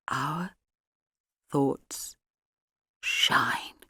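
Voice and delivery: barely voiced, fading to a whisper; mouthed whisper. A narrator's reading. Mrs Price mouthing the cult phrase, fading into a whisper. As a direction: breathe the words out hollow and vacant. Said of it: "we watched her mouth three familiar words".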